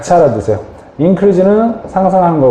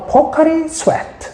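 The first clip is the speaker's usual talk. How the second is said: much higher mock commercial slogan, slow; ad jingle voice; 14 semitones higher, 4 dB quieter, slower than usual. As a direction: belt the brand name like a TV ad. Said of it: "이온 음료".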